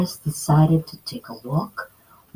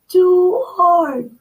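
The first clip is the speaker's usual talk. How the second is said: high, louder mock scream; 12 semitones higher, 4 dB louder than usual. Girl sitting on Papa Bear's chair, mock scream. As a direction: squeal at the hard chair. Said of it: "she screamed".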